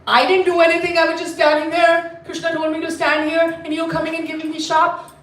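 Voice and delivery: aggrieved gatekeeper arguing back; mad protest. Acted. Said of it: "Sri Ram is also mad".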